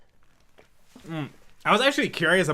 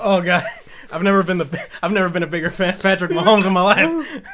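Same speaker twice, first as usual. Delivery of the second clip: laughing; 5 dB louder than usual. Real, not acted. Laughing at friend.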